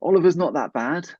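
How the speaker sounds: high-pitched mock reassurance; imitating wife's friend. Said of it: "and she goes".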